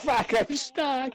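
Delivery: very high, drawn-out squeal; stuck cat voice. Retold or imitated. Echoing friend's cat stuck in wires, high slow squeal. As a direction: squeal it slowly as a trapped cat.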